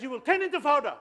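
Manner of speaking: put-on loud, high punchline in an Angan accent; mock threat in an Angan accent, amused; forceful Angan accent impression; powerful Angan accent. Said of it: "in a powerful Angan accent".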